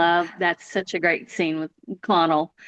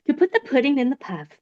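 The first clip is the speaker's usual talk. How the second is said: delighted quote; 5 semitones higher, faster than usual. Shown as a demonstration. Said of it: "puts me in such a good mood".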